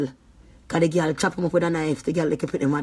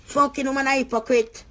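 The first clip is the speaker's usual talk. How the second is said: furious; 8 semitones higher than usual. Real, not acted. Ranting to the camera about a hypocrite woman, furious. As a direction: spit it out in real anger.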